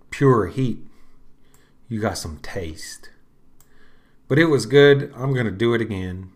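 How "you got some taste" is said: whisper. Real, not acted. Unvoiced aside.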